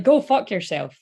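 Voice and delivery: punchy Scottish swearing; emphatic Scottish put-down; Scottish accent. Shown as a demonstration. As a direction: show off the curse in Scottish. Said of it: "sounds great in a Scottish accent".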